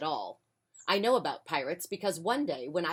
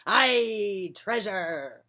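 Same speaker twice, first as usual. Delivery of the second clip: crew shout; 3 semitones higher, 5 dB louder, much slower than usual. Acted. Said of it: "the others shouted".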